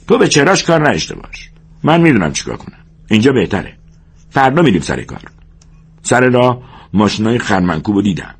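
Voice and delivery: a hint of the bossy minder; George, deciding. George tells Lennie they sleep here, mildly firm. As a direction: dismiss the question, then lay out the plan.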